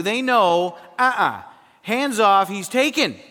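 hammed-up jealous wife staking her claim; playful wife voice. Preacher plays the wife warning other women off, loud and playful. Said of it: "for a woman to say".

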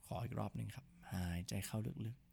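hushed, soft breathing guidance; soft spa whisper. Shown as a demonstration. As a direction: guide the breath softly and gently.

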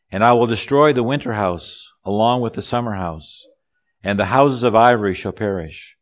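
firm, projected Bible reading; scripture reading. Acted. Preacher reads God's judgment to congregation, firmly proclaimed scripture.

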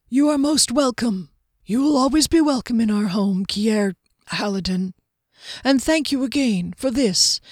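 a hint of a gracious, formal host; gracious Soren, grateful. Host bidding his guest farewell, lightly voiced gracious thanks.

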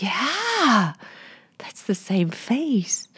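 slow hushed whisper, near tears; slow whispered awe; awed whisper. Real, not acted. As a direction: struck still by recognition. Recognising the girl, moved.

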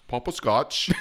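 playful stab at an English accent; attempted English accent. Shown as a demonstration. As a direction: laugh through a fake English accent. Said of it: "say Papa Scotch in Eng-, English".

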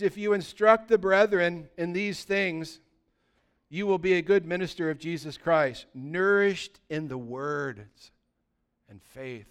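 slow, measured Bible reading; solemn reading of scripture to the congregation. Acted. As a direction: read the verse slowly and solemnly. Reads scripture aloud.

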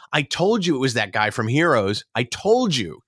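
put-on Southern-accented I-told-you-so. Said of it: "like, an almost Southern accent".

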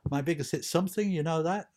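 a gentle Scouse hint; a singer's accent. Retold or imitated. A singer bragging about his hit, in a light Liverpool accent. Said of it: "I'm trying to do a singer's accent".

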